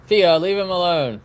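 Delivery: scolding the dog. Real, not acted. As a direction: tell her off slowly.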